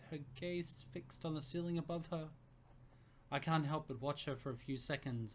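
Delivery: steady storytelling read; narrating a romance story; story narration. A narrator's reading. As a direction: read the scene aloud to listeners. Reads story narration aloud.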